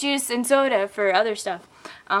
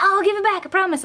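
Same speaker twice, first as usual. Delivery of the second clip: mock pleading; 8 semitones higher, faster than usual. Guy pleads for her hat.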